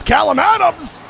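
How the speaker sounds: loud, high shout of the name; play-by-play yell, drawn out; excited goal call. Real, not acted. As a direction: stretch the name out and belt it high. Calling the play.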